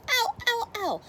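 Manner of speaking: high, loud yelp of pain; sudden loud cry of hurt; pained howl. Acted. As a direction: howl like you just grabbed a hedgehog. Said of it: "he howled".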